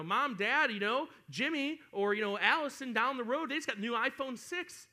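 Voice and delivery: lightly hammed-up child's complaint; complaining kid. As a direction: plead like a kid comparing with the neighbours. Acting a child pestering parents.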